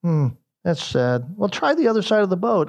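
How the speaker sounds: half-sarcastic advice to the empty-handed fishermen; mildly sarcastic. Retold or imitated. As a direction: tease lightly, faking sorrow. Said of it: "almost sarcastically".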